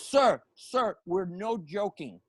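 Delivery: a mock-serious security officer, slowing down. Security man warning the laughing comedian, mock serious. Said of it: "now the guy gets very serious".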